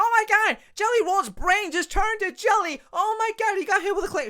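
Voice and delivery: high, hyped-up announcer squeal; mock excited commentator. Mocking Michael Cole's call again, hammed-up excited commentator. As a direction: overplay the commentator's thrill. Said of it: "like, all excited".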